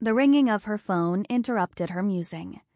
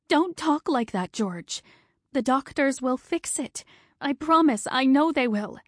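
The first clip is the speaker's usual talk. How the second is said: much higher, urgent and tearful; pleading; 6 semitones higher than usual. Acted. Wife pleading with her dying husband, higher and urgent. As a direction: insist through rising panic.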